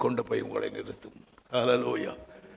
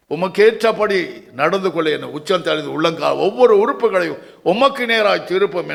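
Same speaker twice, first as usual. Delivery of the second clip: crying out in prayer; 3 semitones higher, 4 dB louder than usual. Shown as a demonstration. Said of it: "கதறி புலம்புவோமா".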